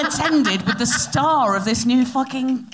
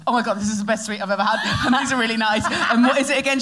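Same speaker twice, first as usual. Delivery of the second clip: gushing nervous babble; faster than usual. Retold or imitated. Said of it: "the least cool I've ever been".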